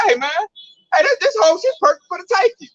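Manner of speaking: mock villain gloating over easy loot; greedy predator voice. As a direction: lick your lips over an easy target. Voicing Russia eyeing a weak target.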